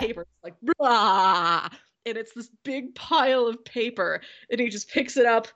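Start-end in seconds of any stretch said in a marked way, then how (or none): 0.8-1.7 drawn-out "blah" noise; imitated spilling noise. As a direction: act out paper spilling out in one long sound.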